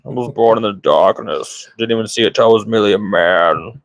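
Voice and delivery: lightly voiced villain boasting; mock Bane voice. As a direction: ham up a supervillain intro. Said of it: "I'm just gonna be Bane".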